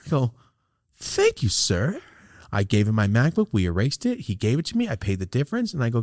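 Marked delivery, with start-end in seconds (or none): 0.9-2.0 squeaky mock thanks. Overjoyed thanks in story.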